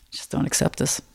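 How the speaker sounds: soft whisper to herself; a private whispered vow while dunking. Retold or imitated. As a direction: breathe it out under the breath. Telling herself silently while dunking.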